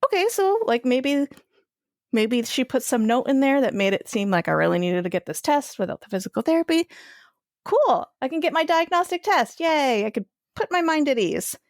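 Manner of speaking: bright, high, hopeful inner voice; hamming up a relieved little celebration; mock cheerful hope. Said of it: "And I was like".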